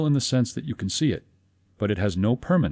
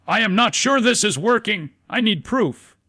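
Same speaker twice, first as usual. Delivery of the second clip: much higher and louder, a panicked anxious cry; screaming doubt; 13 semitones higher, 5 dB louder than usual. Acted. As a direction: shriek it like your own fearful doubt. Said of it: "It screams to the subconscious mind".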